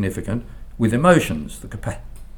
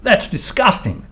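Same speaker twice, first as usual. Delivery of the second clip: high, drawn-out cry of disgust; mock exclamation of disgust, pitched high; retold outcry; 9 semitones higher, 3 dB louder, slower than usual. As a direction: imitate an appalled bystander crying out, slowly. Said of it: "a lady standing near him cried out".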